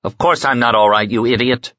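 grieving lord snarls at his worried armsman; snarled. Acted. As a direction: bite the words off in grief-stricken anger. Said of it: "Miles snarled".

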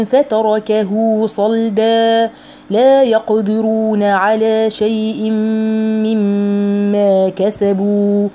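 slow, drawn-out tajweed chanting; Quran recitation. Acted. Teacher reciting the verse for her students, slow measured chanting. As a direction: recite each phrase slowly with long pauses.

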